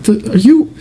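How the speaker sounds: high-pitched, incredulous comeback; retold outraged rebuke, pitch way up; indignant. Acted indignant comeback to friend.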